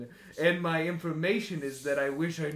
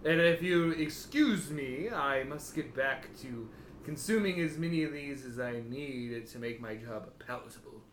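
slow weary lawyer; 3 semitones lower than usual. Acted. GM voices Elian.

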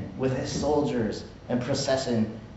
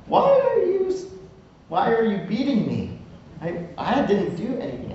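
talking donkey; 7 semitones higher than usual. Retold or imitated. Donkey speaking to Balaam.

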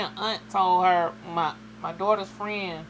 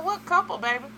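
high retold voice; 12 semitones higher, faster than usual. Speaker's own retold reply.

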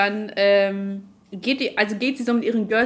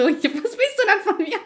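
mock challenge; 12 semitones higher, 4 dB louder than usual. Her retort, retold.

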